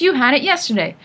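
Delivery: high, loud accusing screech. A narrator's reading. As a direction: screech it like a cheated old sister. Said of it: "Tempest screeched".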